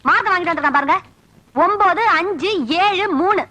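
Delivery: high-pitched fed-up grumbling; irritated motherly rant; exasperated complaint. Acted. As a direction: complain to your husband about the boy's marks. Mother complains about son's bad marks.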